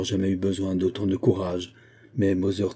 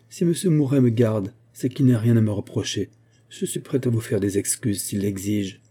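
gentle reply. Acted. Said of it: "elle répondit doucement".

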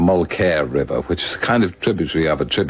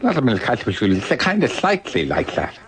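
Buckles' voice; 6 semitones higher than usual. Retold or imitated. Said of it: "used to talk like that".

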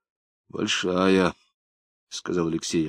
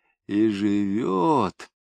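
absent-minded repeating; much slower than usual. Acted. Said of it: "Без всякого смысла, говорил он".

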